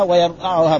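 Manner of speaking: ويرضعها said "wa-yarda'uha", with an a after the dad; fatha on dad. Shown as a demonstration. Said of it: "بفتحها". (ويرضعها بفتح الضاد)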